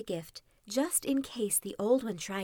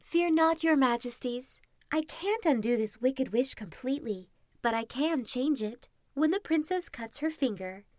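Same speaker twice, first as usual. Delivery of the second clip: reassuring good fairy; 4 semitones higher than usual. Acted. Good fairy comforts the king.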